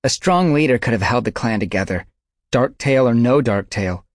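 angry she-cat arguing; heated argument. A narrator's reading. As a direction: push the point hard.

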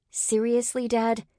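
high-pitched, exasperated appeal; young woman's indignant complaint; incredulous protest. A narrator's reading. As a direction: question Dad in disbelief. Ray protests to her father.

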